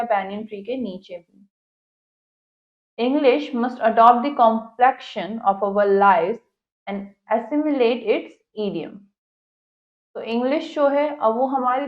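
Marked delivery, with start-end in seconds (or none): 3.0-9.0 slow, careful English reading; textbook read-aloud. Acted. Teacher reads the English passage to students, slow read-aloud. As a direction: read it out deliberately for a class.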